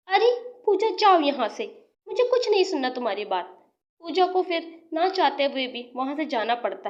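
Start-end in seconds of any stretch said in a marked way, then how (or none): 0.1-3.5 high sharp telling-off; angry dismissal. Acted. Rajni angrily driving Pooja out of the party. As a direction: send her away in anger.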